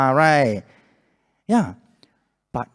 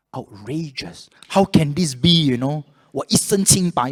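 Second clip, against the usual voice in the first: indignant; 4 dB louder, slower than usual. Retold or imitated. Man protesting to the bank about a debt, indignant. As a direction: play up the outrage at the accusation.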